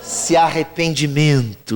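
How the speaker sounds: slow, emphatic preaching of the verse; preaching scripture. Acted. Pastor proclaiming the verse to the congregation, slow and emphatic. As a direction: drag out each word like a proclamation. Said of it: "Fala pra alguém do teu lado".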